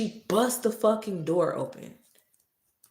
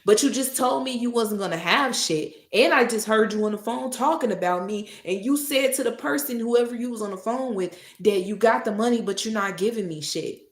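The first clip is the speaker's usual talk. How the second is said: loud, high outraged yell; angry shouting; 6 semitones higher, 8 dB louder than usual. Retold or imitated. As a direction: call her out, furious. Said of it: "I said".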